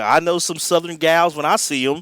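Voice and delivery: imitating a slick lounge singer working the room; smarmy lounge singer. Quoting Nick the lounge singer.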